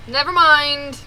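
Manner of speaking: laughing. Real, not acted. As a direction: give up with a laugh. Repeated while laughing.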